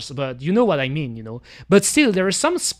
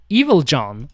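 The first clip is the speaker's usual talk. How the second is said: evil twin voice; 3 semitones lower than usual. Pretend. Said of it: "That is John".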